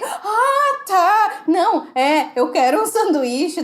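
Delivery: starts very high, then settles; confused customer finally ordering, high and flustered; flustered high reply. Retold or imitated. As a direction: answer flustered, jumping up in pitch.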